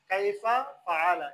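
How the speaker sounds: slow, drawn-out Arabic recitation of কাইফা ফাআলা; Quran recitation. Shown as a demonstration. Teacher demonstrating Quran recitation to students, slow and drawn out. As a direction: chant কাইফা ফাআলা slowly with long vowels. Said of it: "এই ফাআলা এখানে এসে".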